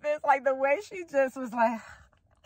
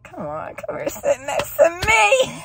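playful coaxing; 5 semitones higher than usual. Retold or imitated. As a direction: coax sweetly, rising high at the end. Coaxing, rising from soft to high.

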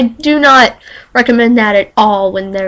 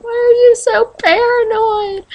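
friend's voice; 12 semitones higher than usual. Retold or imitated. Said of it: "They were like".

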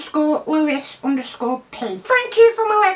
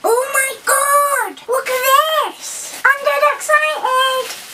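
high, slow, drawn-out squeals; squeaky excitement; 6 semitones higher, slower than usual. Pretend. Child character opening a parcel, squealing with excitement. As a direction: stretch each phrase with childlike glee.

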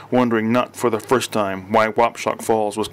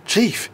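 "Chief" lifted high and weighty; momentous emphasis; 10 semitones higher than usual. A narrator's reading. Examiner alerting the chief to a find, "Chief" high and weighty. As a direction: make "Chief" a grave announcement. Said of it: "he said with momentous emphasis".

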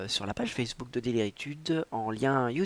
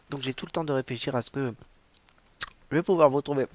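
candy in the mouth; sucking a throat lozenge; 4 dB louder, faster than usual. Real, not acted. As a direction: talk around a sweet. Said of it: "j'ai un bonbon dans la bouche".

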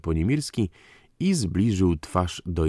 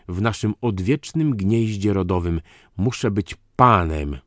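higher, emphatic indignant tirade; aggrieved count; 4 semitones higher than usual. Acted. Count lists his humiliations to Dyzma, indignant. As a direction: pour out the wronged heir's complaints.

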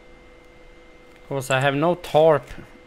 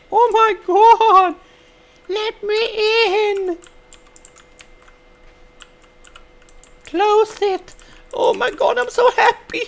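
relieved laughter; 7 dB louder than usual. Acted. High far voice inside the fort.

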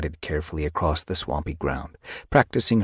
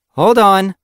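loud, raised-pitch check; firm interruption; 11 dB louder than usual. A narrator's reading. Warrior halts an overexcited apprentice, firm. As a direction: cut in firmly to halt them.

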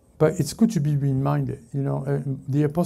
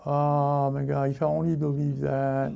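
mock wistful; 3 semitones lower, 3 dB quieter than usual. Preacher mimics a believer who doubts, mock wistful drone.

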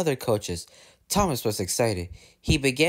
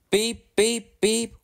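high, piping beeps; engine whistle; 10 semitones higher, 3 dB louder, much slower than usual. A narrator's reading. Thomas whistling into the station, piping. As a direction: pipe it out like a train whistle. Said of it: "whistled Thomas".

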